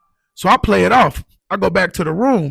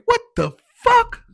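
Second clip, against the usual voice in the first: high, slow, laughing disbelief; shocked; slower than usual. Retold or imitated. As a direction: gasp it out in stunned disbelief. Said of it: "I'm like".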